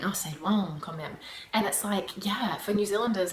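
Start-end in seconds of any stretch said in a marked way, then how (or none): 0.0-1.1 weary French complaint. Retold or imitated. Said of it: "a bad thing".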